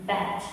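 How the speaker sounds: bat with an audible final T; final T sounded. Shown as a demonstration. Teacher models bat for pupils, final T sounded. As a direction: finish bat on a released T. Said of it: "ออกเสียงตัวทีด้วยนะคะ".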